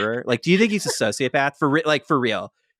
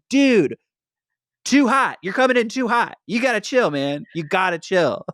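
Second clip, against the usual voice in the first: raised, hammed-up pleading; mock urgent warning; 5 semitones higher than usual. Viewer scolding Mackenzie for pushing too hard, hammed-up. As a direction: tell him to back off, half-joking.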